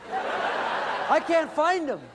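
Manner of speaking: stretched out very slowly, high, through real laughter; laughing. Real, not acted. Telling the audience about the scattered kids, laughing hard. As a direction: laugh while you drag out each word.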